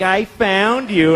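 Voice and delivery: slow, drawn-out smug gloating; smug "found you". Retold or imitated. Daughter gloating slowly at finding papa. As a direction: rub it in, slowly. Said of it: "She's, like, shitty about it".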